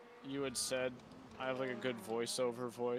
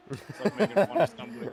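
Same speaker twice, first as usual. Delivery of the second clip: excited outburst; 8 semitones higher, 12 dB louder, faster than usual. Real, not acted. Embarrassed laughing outburst.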